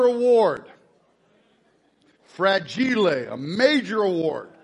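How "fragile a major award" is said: low, slow, awed movie quote; lightly voiced awestruck dad. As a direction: savor it like a treasured prize. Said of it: "that's a funny show".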